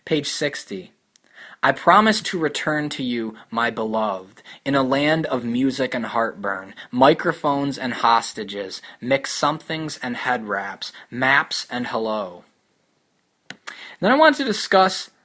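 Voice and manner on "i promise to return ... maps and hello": measured literary read-aloud, falling phrase ends; unhurried recitation of a poem; poetry reading. Acted. Reads a line from the book.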